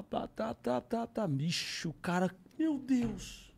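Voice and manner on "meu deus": slow, drawn-out amazement; stunned disbelief. Retold or imitated. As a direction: draw it out, stunned, without shouting. Man's first stunned reaction, acted.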